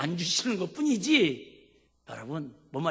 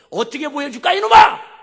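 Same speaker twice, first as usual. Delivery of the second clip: much higher, louder mock shout; God's retort; 9 semitones higher, 16 dB louder than usual. God snapping back at Hezekiah, mock shout. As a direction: bark it back at him.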